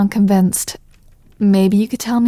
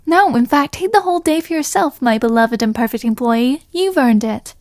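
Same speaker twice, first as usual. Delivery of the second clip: higher, lightly voiced fake boss; voicing the boss; 4 semitones higher than usual. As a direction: play the boss granting a day off, hammed-up.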